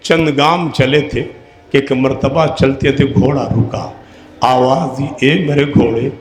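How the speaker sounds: a grief-laden murmur as the horse halts; hushed telling. Acted. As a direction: draw the crowd in close and quiet. Hushed moment horse stops.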